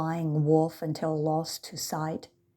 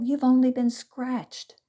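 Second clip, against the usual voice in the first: laughing a little; 7 semitones higher, 5 dB louder than usual. A narrator's reading. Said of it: "laughing a little".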